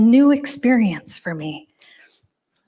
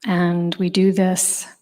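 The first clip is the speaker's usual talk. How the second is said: guided meditation. Acted. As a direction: ease the room into stillness. Leads seated meditation instructions.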